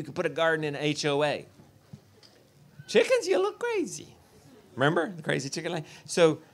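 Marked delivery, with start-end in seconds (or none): 2.9-4.1 much higher mock scoffing voice; hammed-up disdain; mocking onlooker. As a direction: sneer it like a judgmental neighbor. Mocking the public's old reaction.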